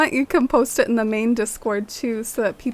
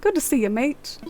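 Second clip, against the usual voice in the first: put-on British accent; 3 semitones higher than usual. Player retries the line in a British accent. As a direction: say "Good to see you, mate." trying out a British accent. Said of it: "Does he have, like, a British accent?".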